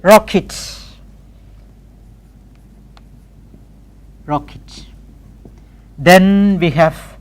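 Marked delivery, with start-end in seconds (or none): 0.0-4.9 "Rocket" as rock-it; "Rocket" with reduced end. Shown as a demonstration. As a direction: say "Rocket", light it ending. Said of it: "How do we say?".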